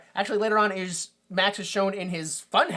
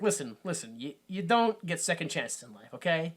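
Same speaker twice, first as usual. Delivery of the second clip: dad backing down; 2 semitones lower, 5 dB quieter than usual. Retold or imitated. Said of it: "'Cause Max starts crying".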